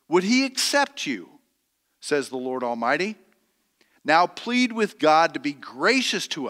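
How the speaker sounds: measured, solemn Bible reading from the pulpit; scripture reading. Acted. Preacher reading Malachi to the congregation, solemn and measured. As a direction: read the prophet's words with weight.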